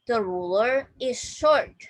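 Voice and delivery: measured sentence for learners to repeat; teacher's careful read-aloud; model reading. Shown as a demonstration. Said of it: "Please repeat after me".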